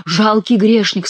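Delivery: slow, weighty mock-solemn boom; mock voice of God. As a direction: echo the accusing voice with a jester's relish. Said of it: "сказал голос".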